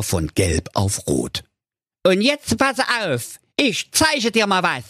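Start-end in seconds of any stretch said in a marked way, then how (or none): 2.0-4.8 high, lightly voiced villain threat; mustache twirling villain. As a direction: threaten with mock menace. Ninja threatens.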